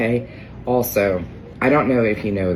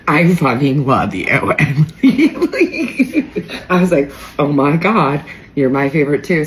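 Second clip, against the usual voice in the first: high, loud gush with laughter; excited fangirling; 6 semitones higher, 5 dB louder than usual. Retold or imitated. Gushing back at a favorite creator, excited. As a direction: squeal it out, thrilled and laughing. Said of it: "I lost my shit".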